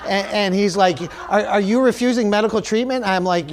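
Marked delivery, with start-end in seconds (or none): 1.3-3.1 higher-pitched mock official query; indignant challenge. Store worker to bleeding customer refusing help, indignant mock challenge. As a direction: challenge him, imitating a put-out helper.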